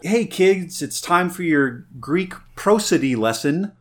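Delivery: hammed-up cheery teacher voice; mock kids' show host. Host offers listeners a Greek lesson, playful teacher voice. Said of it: "I'll give my little".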